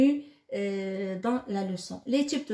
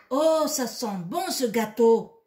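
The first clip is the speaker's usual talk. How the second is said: "Oh, ça sent bon ce gâteau!" said louder with a delighted lift on "Oh"; exclamation; 5 dB louder than usual. Shown as a demonstration. Teacher acting out a sample exclamation for the children, louder and delighted. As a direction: exclaim it like you just smelled the cake. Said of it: "on s'exprime".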